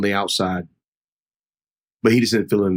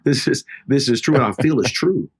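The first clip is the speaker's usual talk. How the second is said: mild imitation of crying, pitched higher; tearful; 5 semitones higher than usual. Wife confirming to husband that it's true, mock-tearful. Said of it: "she really started crying".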